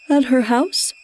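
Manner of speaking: sleepy yawned question; yawning. A narrator's reading. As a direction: ask it through a yawn. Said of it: "I asked, yawning".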